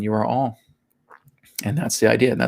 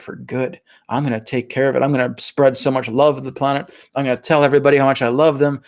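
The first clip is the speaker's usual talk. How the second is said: eager soul insisting, building to emphatic promises; out to convince the doubters, speeding up midway; acted enthusiasm. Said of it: "That's how enthusiastic we are".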